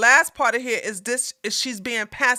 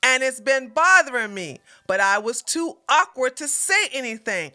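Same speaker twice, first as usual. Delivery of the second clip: slow, emphatic reading of a tweet; deliberate read-aloud. Retold or imitated. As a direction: read it out slowly for latecomers. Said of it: "I'ma read the tweet".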